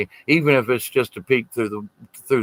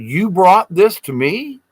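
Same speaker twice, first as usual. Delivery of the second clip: amazed disbelief; 5 semitones higher, slower than usual. Retold or imitated. Doc touched by the gift.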